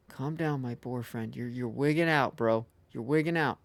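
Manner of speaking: soothing a scared dog. Real, not acted. Soothing the boar.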